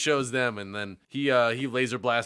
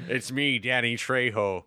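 slow, lightly voiced tough-guy intro; a hint of a gruff movie tough guy; Danny Trejo impression. Friend doing requested movie star impression, lightly voiced. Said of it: "Is it okay for us to do a Danny Trejo".

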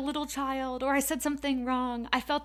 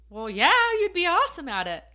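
higher, louder, fast cheer; cheering her on; supportive husband; 7 semitones higher, 9 dB louder, faster than usual. Retold or imitated.

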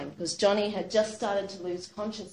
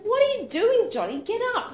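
high, loud call to someone lying in the water; 13 semitones higher, 5 dB louder than usual. Retold or imitated. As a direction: shout across the water, alarmed. Sister finds Johnny face down.

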